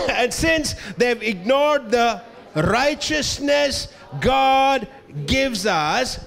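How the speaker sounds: reading it out very slowly, word by word. Shown as a demonstration. Preacher reads a verse aloud, very slow. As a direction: drag each word out slowly. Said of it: "I'm sto-, I'm sorry, what? Since, since what?".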